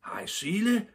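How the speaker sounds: high-pitched excited call; storyteller's eager boyish call. A narrator's reading. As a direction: cry out a greeting to a friend. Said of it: "skreg Topper".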